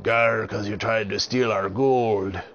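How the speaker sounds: slow, loud pirate accusation. Acted. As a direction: growl it like a pirate. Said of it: "And the pirate said".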